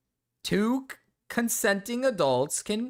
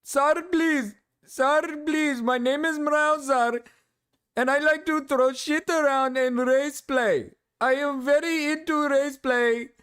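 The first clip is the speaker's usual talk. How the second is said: mock Indian accent, pitched high; hammed-up pleading in a put-on Indian accent; Mrao; 5 semitones higher than usual. Streamer poking fun at Mrao denying being Indian, mock Indian accent. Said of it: "that's my poking fun at Mrao".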